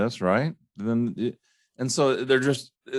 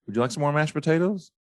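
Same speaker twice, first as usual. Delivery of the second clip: mock host offer; 7 semitones higher, faster than usual. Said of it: "now if, if I'm fine".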